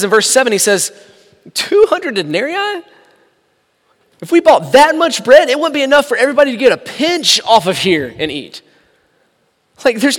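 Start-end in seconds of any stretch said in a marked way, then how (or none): 1.5-8.6 sarcastic. Retold or imitated. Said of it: "some of the most sarcastic words".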